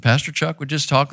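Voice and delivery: lightly imitated resonant pastor voice; a hint of a resonant, gentle preacher; Pastor Chuck. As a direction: talk gently with a touch of resonance. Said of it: "Pastor Chuck had this resonant voice".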